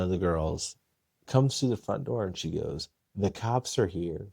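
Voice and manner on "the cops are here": casual, unbothered announcement; offhand, not a care; nonchalant. Retold or imitated. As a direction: say it like it's no big deal. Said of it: "Just nonchalant".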